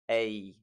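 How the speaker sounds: "a" gliding from eh into ih; combined diphthong. Shown as a demonstration. Teacher combining two vowels, "a" as a glide from eh to ih. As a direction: say "a" as eh and ih blended. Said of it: "two vowels combined to make another".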